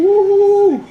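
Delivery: high, loud whoop; excited whoop. Real, not acted. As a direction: cheer it out. Excited about the food.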